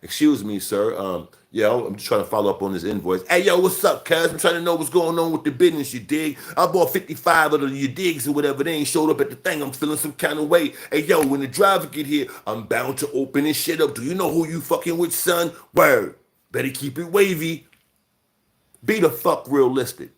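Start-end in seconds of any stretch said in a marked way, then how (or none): 0.0-3.3 lower, polite office caller; proper business voice. Shown as a demonstration. Grown man showing how he really talks, polite and proper. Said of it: "I'm talking like that all the fucking time". 3.3-17.7 mock slang voice. Shown as a demonstration. Mocking a slang talker calling about an order, hammed up. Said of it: "I'm talking like that all the fucking time".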